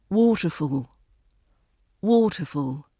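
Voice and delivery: WATER stressed, fall lighter; weight on the "wa" of waterfall; waterfall, front-stressed and falling away; first-word stress. Shown as a demonstration. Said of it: "R P stress on the first word".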